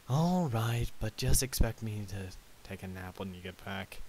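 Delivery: loud, drawn-out grudging start, then settling; sighing. Acted. Spike agrees to look after the guest, sighing. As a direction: agree with a put-upon sigh. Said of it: "Spike sighed".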